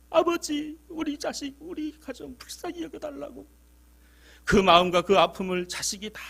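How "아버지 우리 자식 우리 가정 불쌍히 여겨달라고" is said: pleading prayer. Retold or imitated. Voicing a parent's prayer.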